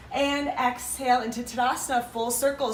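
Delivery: breathless after the flow; out of breath. Real, not acted. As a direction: speak between heavy breaths. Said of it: "you can notice I'm getting out of breath".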